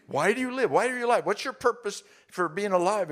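mock girlfriend's pointed question; mimicking girlfriend. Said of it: "She said".

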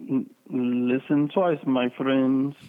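slow put-on Puerto Rican accent; lightly voiced Puerto Rican accent. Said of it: "That's my Puerto Rican voice".

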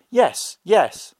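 high doll voice. A narrator's reading. Girl shows the merchant her doll's words, high doll voice. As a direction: chirp it like a toy doll.

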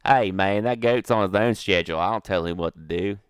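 drawling Canadian redneck goat owner; mock Canadian redneck under questioning. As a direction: put on a hammed-up Canadian redneck accent. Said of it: "Would you like to interview this man?".

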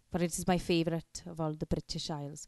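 put-on Welsh accent. Shown as a demonstration. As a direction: do a beautiful Welsh lilt. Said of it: "do a beautiful Welsh voice".

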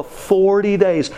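forty days drawn out slowly; lightly voiced old man stressing forty days; slow emphasis. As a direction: land each word slowly. Old man repeats instruction.

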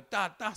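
two short "ta" shots; spoken bang-bang sound effect; imitated gunshots. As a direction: mimic gunfire with the mouth, at talking volume. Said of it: "sonaban así".

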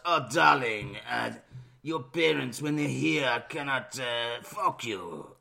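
mock French lover; French accent. Letter to his teenage bride, in a mock French accent. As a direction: put on a French accent for a lovelorn singer. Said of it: "in a French accent".

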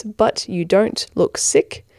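"but you don't look sick" said slowly, word by word; slow spelling out. Shown as a demonstration. Giving listeners the web address, slow and deliberate. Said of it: "all one word".

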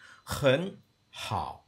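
很好 with the real sandhi contour; natural Mandarin. Shown as a demonstration. Teacher shows the correct 很好. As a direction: say 很好 as natives do. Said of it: "but it's not".

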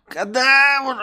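high, strained call; master calling out. Acted. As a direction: call for the servant again.

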